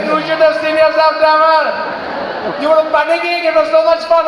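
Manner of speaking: put-on high Indian-accented waiter explaining the prank. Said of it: "He's like".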